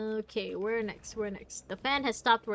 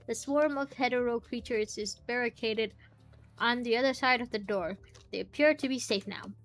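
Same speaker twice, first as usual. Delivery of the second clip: measured read-aloud narration; story narration. A narrator's reading. Player reading the tower story aloud, narration. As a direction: read the scene out evenly.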